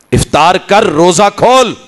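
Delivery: ordinary talk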